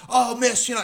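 high-pitched mock politeness; imitated politeness. Salesman addresses customer's wife, imitated politeness. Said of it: "she's trying to be polite".

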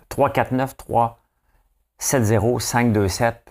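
very slow, split in two groups; slow grouped dictation. Shown as a demonstration. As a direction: pause between the two groups. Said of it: "regardez cette séquence de numéros-là".

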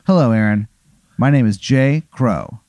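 slow, grand character introduction; measured showman's greeting, word by word; theatrical bus driver. Acted. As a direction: welcome them aboard with drawn-out ceremony. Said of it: "and he goes".

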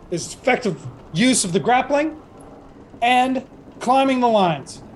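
a hint of a stern orc drill instructor; lightly voiced gunner giving orders in measured phrases; orc master gunner briefing recruits. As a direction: deliver orders to green recruits, pausing between steps.

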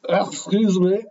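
bad French accent. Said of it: "That's my really bad French".

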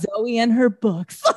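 amused, laughing through it; laughing mock quote. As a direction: tease it with a laugh. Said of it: "Just like".

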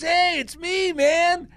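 high and eager, imitating the young guy; excited greeting. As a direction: pizza guy's greeting retold with excitement. Young man greets him excitedly.

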